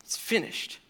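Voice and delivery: breathy whisper, hushed and awed; whispered echo. Acted. Preacher echoes Jesus' last words to the congregation in a whisper. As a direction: let it fall to a whisper.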